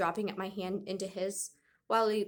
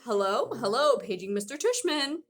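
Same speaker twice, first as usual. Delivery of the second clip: high put-on old lady voice, hammed up; fake old lady voice; 4 semitones higher, 5 dB louder than usual. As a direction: play a silly old lady on the loudspeaker. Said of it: "He was using a high, fake high old lady voice".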